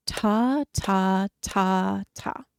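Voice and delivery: even rhythmic ta syllables; steady counting. Shown as a demonstration. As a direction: count the beats evenly. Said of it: "saying ta for each one".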